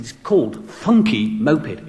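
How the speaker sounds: "Funky Moped" spelt out slowly, word by word; slow, deliberate correction. Retold or imitated. Guest repeating "Funky Moped" for a deaf DJ, slow deliberate correction.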